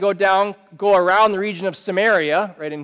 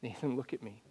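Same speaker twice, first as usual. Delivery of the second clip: counselor's voice; 8 semitones lower, 19 dB quieter than usual. Retold or imitated. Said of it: "And her saying".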